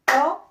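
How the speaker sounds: "Tante" in two beats, tan ... te; lifted "tan", long wait, short "te" in "Tante"; syllable by syllable. Shown as a demonstration. Teacher starting over for pupils, syllable by syllable. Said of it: "Je recommence".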